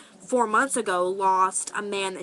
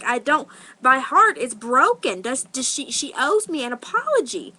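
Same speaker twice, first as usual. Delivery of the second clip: raised, pleading outrage; retold screaming; 4 semitones higher, 4 dB louder than usual. Teller re-enacts demanding an apology from the grandpa, screaming. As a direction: re-enact a hurt outburst, pitched up and stumbling. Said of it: "I was, like, screaming".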